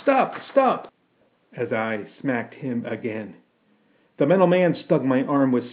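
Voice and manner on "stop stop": high-pitched mock scream. A narrator's reading. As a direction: cry out in a high, alarmed voice. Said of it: "I heard Martha Miles screaming".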